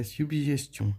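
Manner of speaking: "suggestion" with French ü and nasal ending; French pronunciation demo. Shown as a demonstration. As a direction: model "suggestion" as süb-zhes-tyon. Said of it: "esse som de G G".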